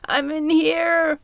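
high fairy voice, slowly. Acted. Trapped fairy Belle tells Midge where she is, high and slow. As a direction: draw it out small and high from the cage. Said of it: "a high, gravelly voice".

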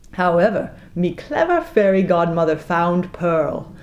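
usual speaking voice

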